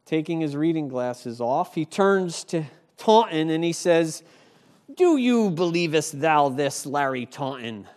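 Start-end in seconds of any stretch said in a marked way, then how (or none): 4.9-7.9 sarcastic question. Retold or imitated. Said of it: "His sarcasm is evident".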